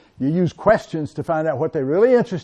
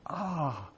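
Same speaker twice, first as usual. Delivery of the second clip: very soft breath of amazement; barely voiced "ah" of wonder; amazed gasp; 17 dB quieter than usual. Shown as a demonstration. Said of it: "with an amazed facial expression".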